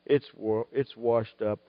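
a soft, defeated sigh of giving up; helpless cry. Retold or imitated. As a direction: let it sag, soft and beaten. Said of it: "wasn't the helpless cry".

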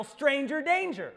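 loud, slow, high yell. Pretend. Kid yelling at creepy stranger, loud slow shout. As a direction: shout it out for help. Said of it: "and you yell".

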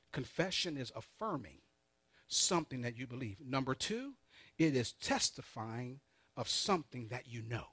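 measured dictation, phrase by phrase; said slowly. Shown as a demonstration. Preacher repeats numbered points for note-takers, said slowly. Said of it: "I'm gonna say this slowly".

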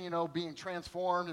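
usual speaking voice

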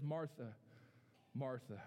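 calm, patient call of the name; gentle. Shown as a demonstration. Preacher voicing Jesus to Martha, gently. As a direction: say it kindly, not scolding. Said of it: "It's, it's not angry".

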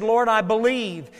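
preacher voicing a crying-out father. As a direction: call it out as a father's appeal. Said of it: "this father cries out".

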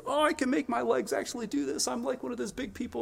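put-on high-pitched toddler full of wonder; excited toddler. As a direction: marvel like a child taking first steps. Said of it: "they get so excited? There's this wonder".

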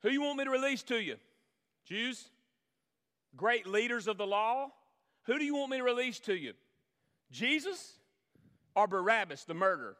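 a preacher acting out Pilate's offer; Pilate addressing crowd. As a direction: voice Pilate putting the question to the mob.

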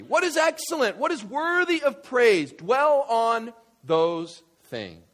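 loud preaching, slowing right down at the end; full-force exhortation; emphatic proclamation. Real, not acted. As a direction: proclaim it high, then descend slowly and firmly.

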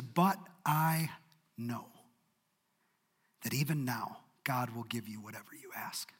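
soft, low, whispered confession of trust; whispered faith. Acted. Martha confessing faith to Jesus in a whisper. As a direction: breathe it like a secret hope. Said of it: "she makes this statement".

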